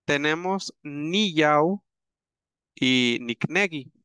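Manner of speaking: niyau and niknegi spelled out slowly, syllable by syllable; careful teacher model of niyau and niknegi; slow word demo. Shown as a demonstration. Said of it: "estos dos verbos que tenemos por acá".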